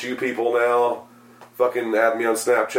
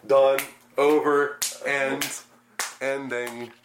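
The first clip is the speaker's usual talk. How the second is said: fading out; 2 semitones higher, 5 dB quieter, slower than usual. Acted. Signing off, fading out.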